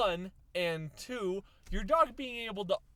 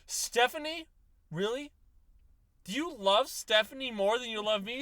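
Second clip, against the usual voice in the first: higher, hurt jealous dog; a higher-voiced dog wounded by the owner's betrayal; 4 semitones higher, 4 dB louder than usual. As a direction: demand it like a betrayed partner. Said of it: "She's like".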